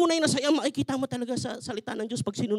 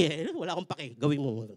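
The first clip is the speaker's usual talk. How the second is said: lower, softer, calm divine voice; God speaking; 8 semitones lower, 4 dB quieter than usual. Acted. God answering the complaining husband, low, soft and firm. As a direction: answer like a patient Father.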